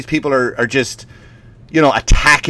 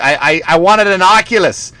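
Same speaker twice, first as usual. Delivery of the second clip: put-on higher, stammering little boy; disappointed kid; 5 semitones higher than usual. Boy to parents over wrong present, mock disappointed. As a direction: imitate a small Boston boy's complaint. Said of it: "he's like".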